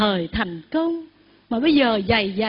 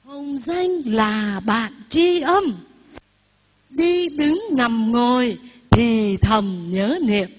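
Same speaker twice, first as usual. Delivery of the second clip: verse recitation; 2 semitones lower than usual. Shown as a demonstration. Teacher recites verse for congregation.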